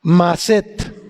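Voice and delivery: "maset" with the accent on its last syllable; stress on final E. Shown as a demonstration. Teacher repeating a Hebrew word, "maset" stressed on the E. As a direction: land "maset" on the E. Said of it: "sin la A y acento en la E".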